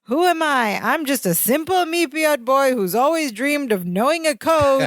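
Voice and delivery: hammed-up self-pity, drawn out; Balky's wounded speech. Balky giving up his dream of knowing a code, melodramatically wounded. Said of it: "Balky does this little, like, speech".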